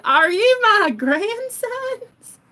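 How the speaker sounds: very high, drawn-out granny wail; slow, loud, bewildered granny squeal; old lady. Acted. Old lady still confused amid the brawl, high and quavering. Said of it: "She's still like".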